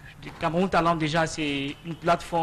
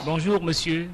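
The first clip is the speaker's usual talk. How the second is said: louder greeting; speaking up; 5 dB louder than usual. Real, not acted. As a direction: speak up for the mic. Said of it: "Parlez plus fort".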